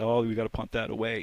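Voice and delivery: ordinary talk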